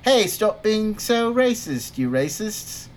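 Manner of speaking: lightly voiced, slow scolding line; a hint of a preachy lecture; mock Ewan McGregor. Podcast host mocking a scolding Ewan McGregor, lightly voiced. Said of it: "than Ewan McGregor saying".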